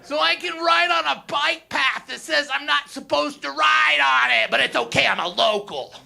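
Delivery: a hint of a high entitled whine; entitled local. Comic mocking a smug local biker, lightly voiced entitled whine. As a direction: act smug about breaking rules. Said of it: "it's like".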